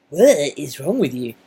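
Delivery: slow, loud, appalled what is wrong with you; appalled retort. Retold or imitated. English person reacting to biscuits and gravy, slow loud disbelief. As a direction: play the baffled English person recoiling. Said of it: "they'll probably be like".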